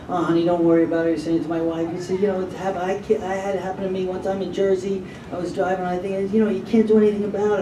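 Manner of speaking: soft, soothing retold comfort; sympathetic. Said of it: "he was so sympathetic".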